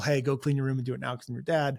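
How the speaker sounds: usual speaking voice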